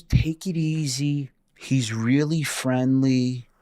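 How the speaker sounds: lightly voiced woman calming him down; calm reassuring landlady. Caretaker reassuring tenant about the ghost, calm.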